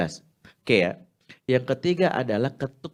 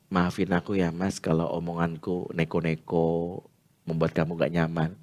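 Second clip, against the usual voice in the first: soft apology; 4 semitones lower than usual. Shown as a demonstration. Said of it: "minta maaf".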